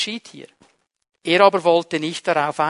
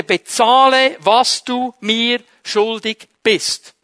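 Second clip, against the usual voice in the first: harsh demand; 2 semitones higher, 4 dB louder, slower than usual. Acted. Servant chokes debtor, demands money.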